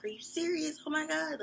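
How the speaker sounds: high-pitched, incredulous frustration; exasperated disbelief. Retold or imitated. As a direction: blurt it out, fed up and incredulous. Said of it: "frustrated with people".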